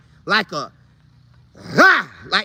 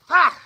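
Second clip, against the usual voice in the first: battle shout; 7 semitones higher than usual. Retold or imitated. Players' battle cry.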